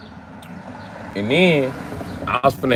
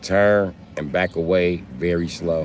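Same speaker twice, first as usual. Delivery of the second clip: slow cautious warning; 4 semitones lower, slower than usual. Retold or imitated. Friend cautiously warns about spider.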